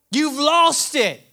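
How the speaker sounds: ordinary talk, nothing marked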